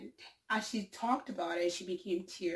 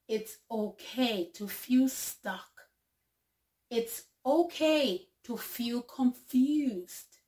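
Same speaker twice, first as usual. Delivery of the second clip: slow, deliberate, slightly raised reading voice; slow quote reading; 3 semitones higher, 5 dB louder, slower than usual. Acted. Reading an uplifting quote to viewers, slow and earnest. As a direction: lay each line down slowly and earnestly.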